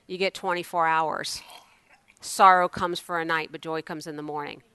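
hushed whisper. Acted. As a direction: drop to a whisper. Dramatic hushed point in sermon.

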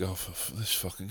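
low, very soft grumble; muttered dread. Acted. Man spotting someone he must greet, muttered dread. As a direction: curse privately under the breath.

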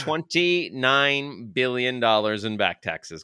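lightly held ring announcer voice; a hint of the title-fight announcer; wrestling announcer. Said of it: "pro wrestler announcement voice on".

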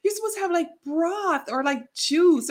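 high, mock bossy coworker voice; scolding coworker. Coworker telling her off for eating a banana, high mock bossy. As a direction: lecture her like a know-it-all. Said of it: "She goes".

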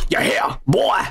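caricatured Cajun whoop; fake Cajun voice. Shown as a demonstration. Showing a co-host what stereotyped voices are, mock Cajun accent. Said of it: "I'm doing, like, Cajun voice".

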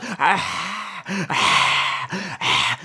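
wheezy fading sigh. Pretend. Host faking a wheezy crowd sigh. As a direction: exhale like a sick old man. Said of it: "sounded like he had emphysema".

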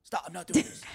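lightly imitated raspy friend; a hint of rasp on a retold refusal. Friend brushing off the joke, lightly imitated raspy voice. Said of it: "like, a bit of a raspy voice".

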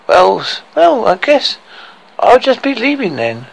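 put-on high, falsely breezy girl's voice; overconfident girl. A narrator's reading. Lily White bluffing her way toward the door, high and falsely confident. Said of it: "with excess confidence".

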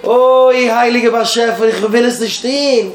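long drawn-out "oh", then a slow plea; acted plea to God. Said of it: "Und er sagt, Heilige Bashefer". (א געצויגן, געשפילט געבעט צום אייבערשטן)

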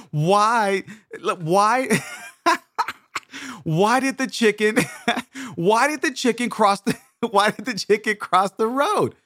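hammed-up giggle fit, restarting the line; sister in stitches. Sister struggling to get the joke out, in stitches. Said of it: "my sister's in stitches by this time".

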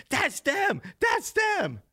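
high, strained accusing cry; high-pitched retold shout; imitated old man yelling. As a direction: mimic an old man pointing out culprits. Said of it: "he's yelling".

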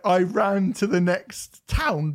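slow, laughing through the quote; can barely get the words out for laughing; laughing while quoting. Retold or imitated. Retelling absurd story, laughing.

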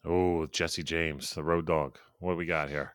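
low, slow drawl; a slow lazy outlaw drawl; drawling cowboy voice. Pretend. Mock intro of the road dog.

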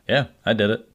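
casual, careless admission; matter-of-fact. Retold or imitated. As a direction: shrug it off lightly. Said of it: "he talked about it so matter-of-factly".

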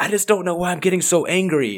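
put-on a touch of a bewildered child; confused daughter. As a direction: daughter explaining her anger to mom, lightly voiced. Daughter confused by her anger.

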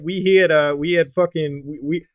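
lightly voiced Italian accent; a hint of a New York Italian youtuber. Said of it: "Italian accent of his".

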